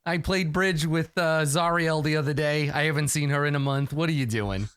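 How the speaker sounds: lightly voiced martyred mother in heaven; guilt-tripping mother. Plays the guilt-tripping angel mother.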